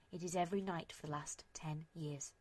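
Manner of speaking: soft unvoiced whisper. A narrator's reading. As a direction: breathe it out as a whisper. Whispered narration aside.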